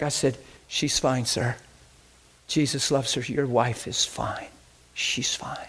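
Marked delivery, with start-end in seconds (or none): 0.7-4.5 calm the worried husband gently; tender assurance; reassuring. Retold or imitated. 4.9-5.6 whispered reassurance; hushed, tender whisper. Retold or imitated.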